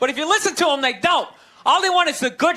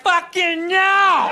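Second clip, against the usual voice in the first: mock inner yell; 4 semitones higher, much slower than usual. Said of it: "inside you're like".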